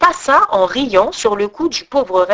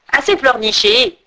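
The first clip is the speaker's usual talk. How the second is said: rudesse; 4 semitones higher than usual. Acted. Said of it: "dit la fille des brigands".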